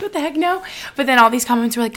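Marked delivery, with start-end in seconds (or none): 0.0-0.6 jumps up high, mock outrage; a sudden high no, no way; shocked reaction. Replying to a fan's pregnancy dream, high and shocked. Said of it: "and I was like".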